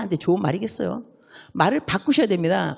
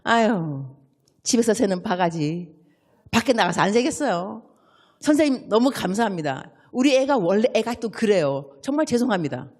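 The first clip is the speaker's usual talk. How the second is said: apologetic parent. Shown as a demonstration. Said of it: "그럼 어떻게 하느냐?".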